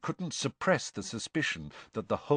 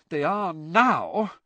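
higher, slow, weary retort; exasperated; 8 semitones higher, 5 dB louder, slower than usual. Acted. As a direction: sigh it out, fed up. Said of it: "in an exasperated voice".

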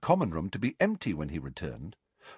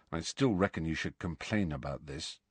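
low, quieter murmur; 3 semitones lower, 8 dB quieter than usual. Acted. Ron urges Harry quietly, low voice. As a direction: keep it down, confiding. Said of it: "said Ron in a low voice".

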